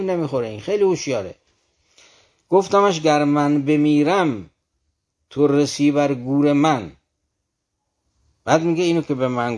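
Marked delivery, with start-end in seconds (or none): 2.5-6.9 poem recitation. Acted. Reciting a Rumi verse.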